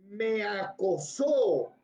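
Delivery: me acosó stretched out slowly; drawn-out emphasis. Shown as a demonstration. Teacher driving home the key word to students, slow emphasis. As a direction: draw out each syllable of me acosó.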